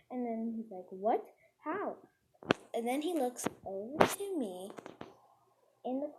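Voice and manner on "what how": retold surprise. Storyteller as the boy hearing her denial, mock surprise. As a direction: imitate a startled double question.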